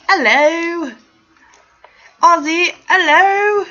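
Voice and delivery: put-on high, loud, lilting accented hello; princess greeting. Host doing a princess wave to Ozzy, high accented greeting. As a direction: call it out like a waving royal. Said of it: "like, a princess wave since you're like".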